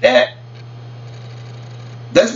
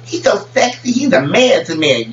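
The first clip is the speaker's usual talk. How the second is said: swooning sisters; 5 semitones higher than usual. Retold or imitated. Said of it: "when all the sisters talk".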